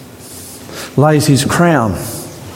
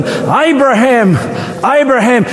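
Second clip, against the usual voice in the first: angel calling; 9 semitones higher than usual. A narrator's reading. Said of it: "called from heaven".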